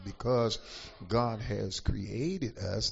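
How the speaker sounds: slow, deliberate preaching delivery; taking his time. Real, not acted. Preacher unhurriedly teaching the congregation about creation, taking his time. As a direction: stretch it out slowly, savoring each word. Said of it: "if I take my time".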